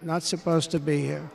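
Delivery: quiet echo. Real, not acted. Hushed echo of line.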